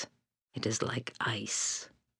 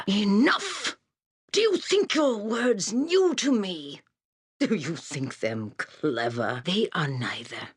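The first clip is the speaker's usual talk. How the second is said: sudden furious shout, much higher and louder; angry outburst; 8 semitones higher, 4 dB louder than usual. Acted. Seer loses patience with the hero, furious shout. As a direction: snap at him as if he bores you.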